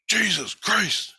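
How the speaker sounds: imitating a friend starting to panic; freaking out. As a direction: stretch "Jesus Christ" out, spooked. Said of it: "he just freaks out".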